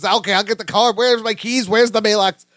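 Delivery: lightly acted panic; mock freak-out. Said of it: "then he freaks out".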